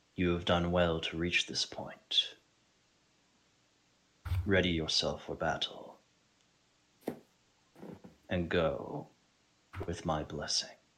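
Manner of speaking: soft, gentle, comforting, reassuring whisper. Game master voices a familiar voice the player hears before battle: comforting Iroas voice. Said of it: "a comforting voice".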